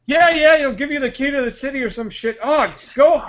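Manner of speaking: hammed-up get-out-of-here impatience; disgusted dismissal. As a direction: play an official repelled by a stench. Commissioner brushing off smelly Batman.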